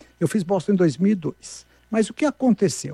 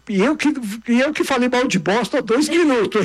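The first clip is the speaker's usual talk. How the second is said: laughing at himself; 5 semitones higher than usual. Real, not acted. Laughs at own contradiction.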